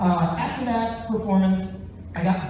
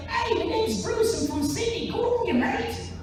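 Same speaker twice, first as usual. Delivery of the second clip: put-on Australian accent; 13 semitones higher than usual. Comic imitating an Australian fan who surprised him, hammed-up Aussie accent. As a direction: ham up a cheery Sydney guy, pitched up. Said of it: "not the voice I expected".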